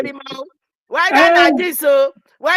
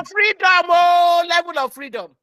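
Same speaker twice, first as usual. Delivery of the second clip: loud, high cry of freedom; shouting her joy at the children; excited cry; 5 semitones higher, 4 dB louder than usual. Retold or imitated. Mother shouting her joy at her children, loud. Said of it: "I said".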